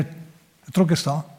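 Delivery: soft and very slow; heavy and slow. Acted. Preacher on the disciples' pressure, slow heavy hush. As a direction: let each word weigh down.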